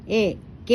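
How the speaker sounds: short vowel in എ, കെ, not lengthened. Shown as a demonstration. Teacher shows pupils vowels without lengthening, short എ, കെ. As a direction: say എ, കെ with short e sounds. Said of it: "എന്നൊക്കെ പറയുമ്പോ ദീർഘമില്ല".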